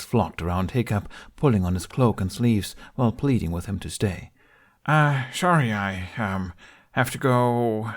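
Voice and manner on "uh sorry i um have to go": stammered. A narrator's reading. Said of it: "Hiccup stammered".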